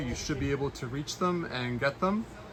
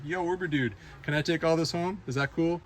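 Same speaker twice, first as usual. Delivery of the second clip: higher-pitched pretend ask; lightly acted, tentative buddy-to-buddy plea; mock casual request; 5 semitones higher than usual. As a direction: play at sweet-talking a driver. Imagined request to the driver.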